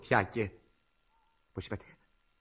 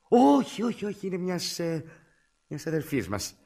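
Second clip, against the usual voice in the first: loud, high, long first no, then faltering; flustered denial; 7 semitones higher, 5 dB louder, slower than usual. Acted. Caller invents a story for the doctor, flustered and loud. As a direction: protest high, then grope for an explanation.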